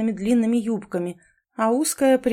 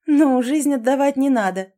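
high, louder, lightly amused voice; amused reassurance; 5 semitones higher, 5 dB louder than usual. A narrator's reading. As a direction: say it as if laughing it off. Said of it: "засмеялась Элизабет". (со смешинкой)

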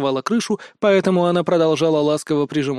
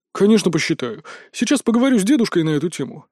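joyful; 3 semitones higher than usual. Acted. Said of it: "радостно произнёс Толик".

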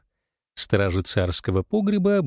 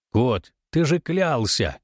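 indignant exclaim; slower than usual. Acted. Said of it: "с негодованием восклицал волк".

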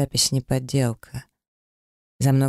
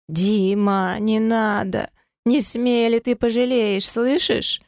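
высоко и громко, срываясь; жена кричит вслед мужу, угрожая; отчаянный крик с угрозой; 9 semitones higher, slower than usual. A narrator's reading. (высокий угрожающий крик)

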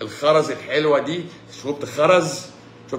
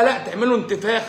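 laughing mock doctor; 6 semitones higher than usual. Doctor's reply, retold with laughter.

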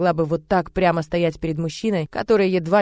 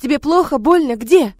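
high, loud anxious questions; frantic questions; 7 semitones higher, 7 dB louder than usual. Acted. Maid anxiously questions the hurting child. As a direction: fire off worried questions.

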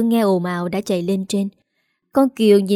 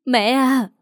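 a startled, higher cry of disbelief; shocked cry; 4 semitones higher than usual. A narrator's reading. Daughter-in-law crying out to her accusing mother-in-law, shocked. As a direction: gasp it out in horror. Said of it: "kêu lên thảng thốt".

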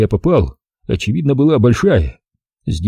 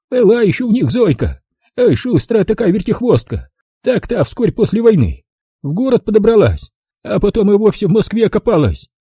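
put-on higher, brisk old-woman voice; old village granny; 10 semitones higher than usual. Old granny greeting the city visitor, high old-woman voice. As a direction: voice the feisty village grandmother. Granny gossips then toasts.

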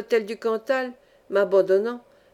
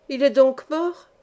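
cri lent et rauque, plus aigu et plus fort; crier fort; 4 semitones higher, 4 dB louder, slower than usual. Acted. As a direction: crier pour une vieille sourde, la voix rauque d'émotion. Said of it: "dis-je en criant assez haut". (crié d'une voix rauque)

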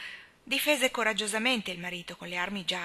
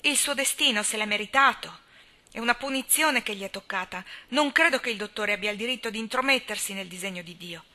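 much higher and louder, scornful; indignant old spinster; 3 semitones higher, 8 dB louder than usual. A narrator's reading. Miss Cornelia scorning Dick Moore to Anna, loud and higher. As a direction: rail against the drunkard.

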